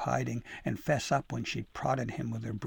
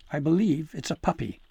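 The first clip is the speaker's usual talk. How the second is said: innocent claim; 4 semitones higher, 6 dB louder than usual. Acted. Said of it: "Dabble D explained".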